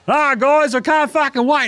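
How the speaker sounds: high, hammed-up excitement; mock eager Simmons. Host mimics Simmons excited to join, high mock eagerness. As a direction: gush like a kid.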